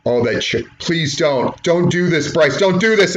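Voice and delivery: rising dread. Shown as a demonstration. Showing how commentary builds dread before the chair shot, pleading. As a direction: beg him not to, building the tension. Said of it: "building up some sense of tension".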